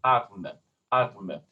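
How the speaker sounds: atme begun with a crisp glottal attack on the a; glottal onset. Shown as a demonstration. Teacher illustrates the glottal symbol, atme with glottal onset. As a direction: start atme on a clean vowel attack, falling. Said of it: "symbol for glottal".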